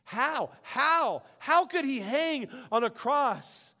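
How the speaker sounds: drawn-out, disbelieving wonder; incredulous questioning. Retold or imitated. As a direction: ask it as if unable to grasp it. Voices his own astonished questioning.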